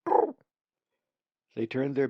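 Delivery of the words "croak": high, loud raven croak. A narrator's reading. Ravens greeting each other in the circle with a loud croak. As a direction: croak it out like a bird.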